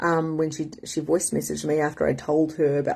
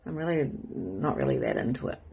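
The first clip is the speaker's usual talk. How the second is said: a quieter, lower flat admission; honest inner voice; 3 semitones lower, 7 dB quieter than usual. Retold or imitated. What we really feel inside, quieter. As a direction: mutter the truth underneath. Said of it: "But really, we're like".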